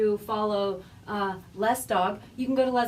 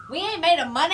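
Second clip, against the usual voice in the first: playful exclamation; 9 semitones higher, 6 dB louder, faster than usual. Real, not acted. Playful punchline.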